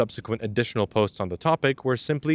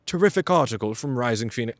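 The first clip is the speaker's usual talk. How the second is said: lightly put-on British accent, reading a blog quote; a hint of a British accent, half-joking. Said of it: "I don't know why I gave him a British accent".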